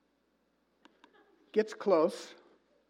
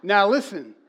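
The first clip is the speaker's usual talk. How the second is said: laughing, louder call to attention; 4 semitones higher, 8 dB louder than usual. Real, not acted. Pastor amused by the photo, laughing. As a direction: laugh as you rein them in.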